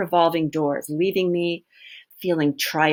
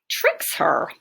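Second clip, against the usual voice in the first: breathy whisper on the trick. Acted. Teacher whispers to the class how he tricks her. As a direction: hush it like a secret.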